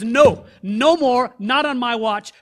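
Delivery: loud, emphatic royal refusal, drawn out; Josiah. Acted. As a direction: put your foot down as a resolute king. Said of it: "Josiah says".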